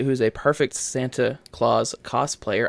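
slow, careful wording; very slowly. Real, not acted. Co-host avoiding a weird-sounding slip, very slowly. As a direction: pick through the words carefully. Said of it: "I had to say that very slowly".

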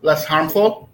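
loud questioning repeat; loud for the room. Real, not acted. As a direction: call it out so all hear. Repeating quiet student answer aloud.

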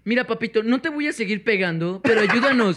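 lightly put-on effeminate coaxing voice; a hint of a fey sweet-talker, coaxing; mock effeminate voice. Coaxing Captain America for help, in a light mock effeminate voice. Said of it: "¿Por qué estás hablando como un pinche joto?".

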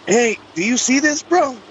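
high-pitched mock amazement, imitating a buddy; imitating an incredulous bro; astonished friend. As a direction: retell a friend's disbelief, pitched well up. Friend astonished at aliens leaving helicopter.

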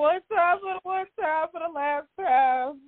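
high, sing-song last-time call; a choked-up farewell call to listeners; emotional sendoff. Real, not acted. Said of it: "I'm, I'm kinda emotional".

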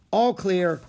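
high, loud answering call; calling back. A narrator's reading. Boy answers girl across the slope, calling back. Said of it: "he called back".

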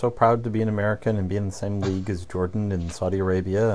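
deadpan sarcastic pride, trailing off. Real, not acted. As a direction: claim pride while meaning the opposite. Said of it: "I'm being sarcastic".

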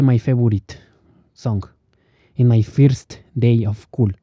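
mock heavy Spanish accent in English; poorly pronounced English. Grammar expert who can't pronounce English, heavy Spanish accent. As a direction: slowly sound out English with Spanish sounds. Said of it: "no tienes ni idea de cómo pronunciarlo".

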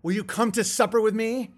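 storyteller reading a dark fable aloud; parable narration. A narrator's reading. Host reading his cannibal parable to viewers, storytelling voice. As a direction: tell it like an old moral tale.

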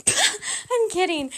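real laugh breaking through the words. Real, not acted. Laughing as she takes back calling viewers dumb. Laughs off her own rant.

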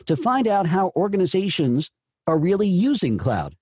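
"using" picked out as the key verb; coach's demo read led by the verb "using"; stress on USING. Shown as a demonstration. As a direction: lean on "using", ease off "cloud". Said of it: "And we have the verb".

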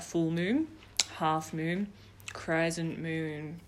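slow sing-song advert quote; advert voiceover. Retold or imitated. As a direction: recite it like the old advert. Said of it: "she'd be like".

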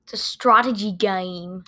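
slow, imitated New Zealand accent. Child mimicking the show's accent for dad, New Zealand accent. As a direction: quote it with New Zealand vowels. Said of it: "New Zealand accent".

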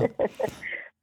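high, soft nervous little laugh; a shy, breathless giggle of stage fright. Real, not acted. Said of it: "Sorry, I'm a bit nervous".

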